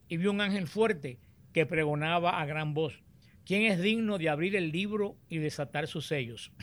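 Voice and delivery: solemn, measured Bible reading aloud; scripture reading. Acted. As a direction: proclaim the passage phrase by phrase, with deliberate pauses. Reads the scripture passage aloud.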